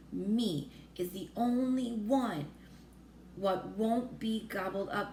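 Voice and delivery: slow, lightly voiced giant, grinning; a giant grinning as he brags, slowly; slow pleased giant voice; BFG. BFG boasts he's safe.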